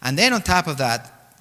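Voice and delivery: ordinary talk, nothing marked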